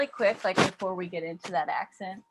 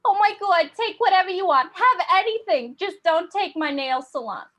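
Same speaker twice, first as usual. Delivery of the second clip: high, loud Jersey pleading; panicked surrender in a Jersey accent; New Jersey accent; 8 semitones higher, 6 dB louder than usual. Acted. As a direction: cave in loudly with a Jersey accent. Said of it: "people in New Jersey were like".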